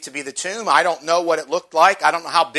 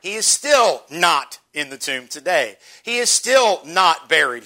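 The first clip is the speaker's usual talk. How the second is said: slow, firm weight on "still not"; deliberate stress on "still" and "not"; emphasis on NOT. Shown as a demonstration. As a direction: press home "still not", word by word. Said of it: "Emphasizing that word".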